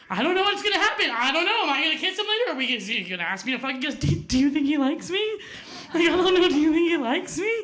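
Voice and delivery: put-on high, breathless girlish excitement; a nervous teenager spilling her crush to friends; giddy teen gushing.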